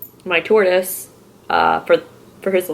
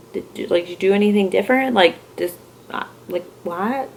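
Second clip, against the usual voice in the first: hushed question; 6 dB quieter than usual. Retold or imitated. Quietly questioning the repair workers.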